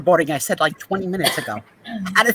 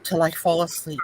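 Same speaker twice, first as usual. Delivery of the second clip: a touch of fed-up pharmacist ranting; Angela impression; 2 semitones higher than usual. Imitating Angela ranting about old customers, mildly hammed-up. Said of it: "That was Angela".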